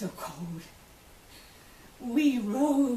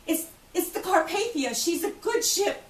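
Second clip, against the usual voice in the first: a man's voice; 7 semitones higher than usual. Retold or imitated. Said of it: "a man's voice saying".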